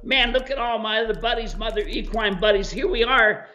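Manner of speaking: lightly voiced new donkey, bubbling to make friends; eager new donkey. New donkey greets the herd, quick eager chatter. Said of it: "and going".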